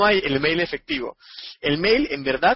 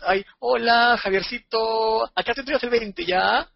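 higher, sing-song voice of a father dealing business; father talking business; 6 semitones higher than usual. Retold or imitated. Father to the partner, sing-song and higher. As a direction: play the father sweetly handing out shares.

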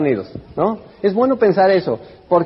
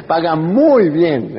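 laughing; much slower than usual. Real, not acted. Laughing at his own point.

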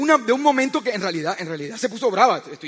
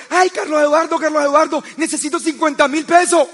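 high, louder pleading, a bit hammed-up; urgent wife; 5 semitones higher, 4 dB louder than usual. Wife runs to husband begging fifty thousand, urgent plea. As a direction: rush in begging for money.

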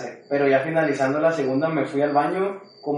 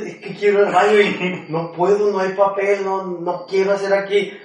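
put-on whiny kid plea; 4 semitones higher than usual. Kid begging mom by phone.

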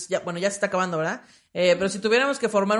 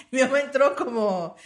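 normal talking voice

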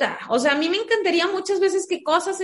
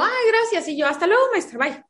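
high, sweet, overly polite thanks; sugary fake thanks; 5 semitones higher than usual. Mother sweetly thanking the teacher who grudgingly fixed the grade, sugary. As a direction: thank her with a sweetly ironic smile.

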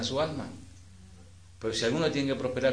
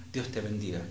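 casual, softer throwaway blessing; offhand blessing; 3 semitones lower, 6 dB quieter than usual. Shown as a demonstration. Preacher showing how people bless each other lightly, offhand. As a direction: toss off the blessing lightly, as a routine phrase. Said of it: "uno dice así ligeramente".

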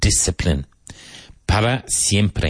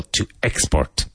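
"export" with EX stressed, lower pitch; to EX-port, lower-pitched teacher's model of "export"; stress on first syllable; 4 semitones lower than usual. Shown as a demonstration. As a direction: lean on EX in "export". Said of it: "emphasis on the first syllable".

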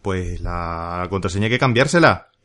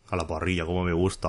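quieter, lightly voiced meme quote; a hint of la humana, said much softer; imitating la humana; 4 semitones lower, 7 dB quieter than usual. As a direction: softly mimic the human saying she loves it. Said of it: "oh, diría la humana".

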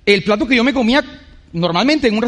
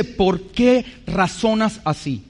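firm but compassionate voice; 3 semitones lower, 5 dB quieter, much slower than usual. Retold or imitated. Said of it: "una voz fuerte y compasiva".

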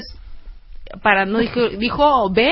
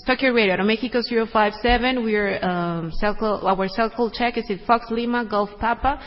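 pilot radio call; 5 dB quieter than usual. Shown as a demonstration. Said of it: "den una instrucción".

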